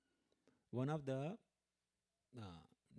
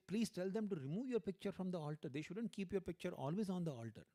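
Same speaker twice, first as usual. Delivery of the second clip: urging; 5 semitones higher than usual. Retold or imitated. Devotee pleading with the sick guru.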